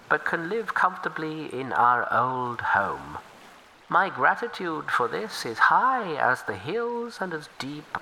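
humble river turtle offering help. Acted. Turtle tells its story.

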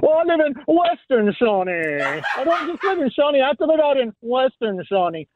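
a hint of smug emphasis on Western; lightly voiced self-important neighbor; Scott impression. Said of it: "What do I sound like when I say".

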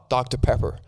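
an English speaker's try at American; attempted American accent. English guest ordering so Americans understand, attempted American accent. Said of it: "try and say it in an American accent".

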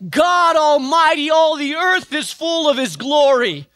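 high ringing shout, building to full voice; angel calling out. Acted. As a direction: cry it out over the whole temple. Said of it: "another angel would call out".

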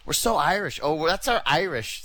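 hammed-up proud mother; mock proud mom. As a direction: parody a mom gushing about heritage. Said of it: "She'll check out all the stuff with Irish".

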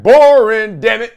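high, loud groan of boredom; mock fed-up outburst. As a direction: blurt it like a bored fan losing patience. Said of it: "You're like".

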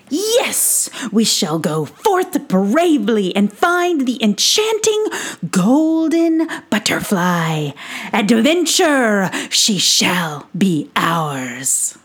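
grandly heroic Brisbane. Acted. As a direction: proclaim it like a tiny knight. Brisbane declares the quest.

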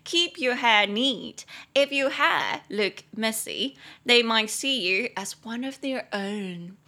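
slow, clear teaching read; slow, careful English model line. Shown as a demonstration. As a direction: spell it out slowly for learners.

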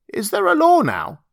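high-pitched creature query; monkey man questioning. Acted. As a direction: pipe up high as a beast-man. Monkey man asks anxiously about law.

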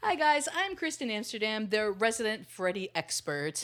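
high bright mock host intro. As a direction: present yourself like a TV host.

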